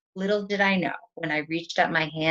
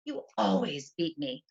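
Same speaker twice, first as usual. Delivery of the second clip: in a huff; 3 dB quieter than usual. Retold or imitated. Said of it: "in a huff".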